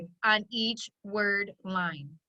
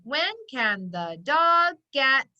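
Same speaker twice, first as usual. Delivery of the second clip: slow dictation; slower than usual. Shown as a demonstration. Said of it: "This is a question".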